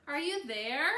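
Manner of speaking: calling out. A narrator's reading. Miss Dickerson calls the kids again, loud. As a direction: call through the dark.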